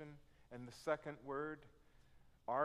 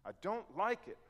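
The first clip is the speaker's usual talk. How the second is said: whiny complaint; 7 semitones higher, 6 dB louder than usual. Retold or imitated. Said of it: "we're saying".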